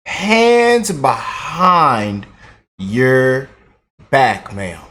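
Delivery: slow, drawn-out mock arrest order, falling low; mock arresting cop. Host pretends to arrest the politician, slow mock cop order. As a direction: play a cop cuffing her, very slow.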